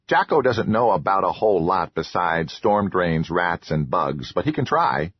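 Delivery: grateful troll, lightly voiced; eager little troll voice. Troll Jocko speaks.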